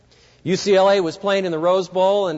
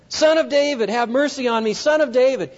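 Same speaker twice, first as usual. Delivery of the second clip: crying out; 5 semitones higher than usual. Retold or imitated. Blind beggar cries past hecklers.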